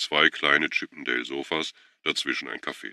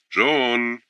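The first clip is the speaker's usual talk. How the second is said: urgent call; 9 semitones higher, 6 dB louder than usual. A narrator's reading. She jumps up, calls out.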